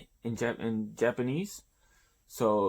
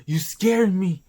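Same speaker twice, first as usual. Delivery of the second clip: higher, louder startled yelp; jumpy protest at the old lady; 6 semitones higher, 5 dB louder than usual. Acted. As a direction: Orochi flustered by the old woman sneaking up on him. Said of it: "Oroshi's scared shitless".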